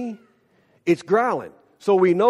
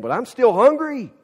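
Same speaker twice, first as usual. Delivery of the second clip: emphatic complaint; 7 semitones higher, 4 dB louder than usual. Retold or imitated. Uncle's comic punchline, retold.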